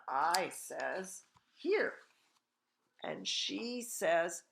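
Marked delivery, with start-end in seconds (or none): 1.6-2.1 very high-pitched chirp; piping little boy. A narrator's reading. Invisible boy answers his mother, piping up. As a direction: pipe up in a small boy's high pitch.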